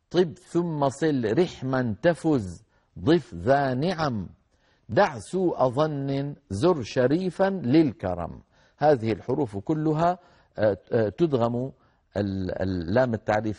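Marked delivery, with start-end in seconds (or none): 0.1-8.4 slow, measured teaching recitation; verse recitation. Acted. Teacher reciting a mnemonic verse to students, slow and measured. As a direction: recite the poem slowly, word by word.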